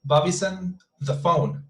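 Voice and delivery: BOBBY'S ON linked, said slowly; slow demonstration of linked BOBBY'S ON; connected speech. Shown as a demonstration. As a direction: join BOBBY'S to ON, taking it slowly. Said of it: "So we connect the sounds".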